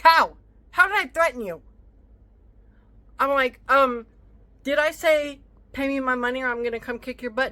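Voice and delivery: loud, high, challenging questions; fired-up retelling of the confrontation. Retold or imitated. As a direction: demand an answer, voice climbing. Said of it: "I did not raise my voice like I am now".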